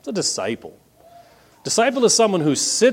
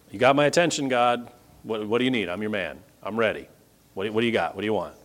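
eager servant; 4 semitones lower, faster than usual. Acted. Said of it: "He said".

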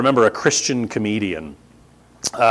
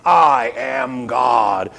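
mock defiant shout; much slower than usual.

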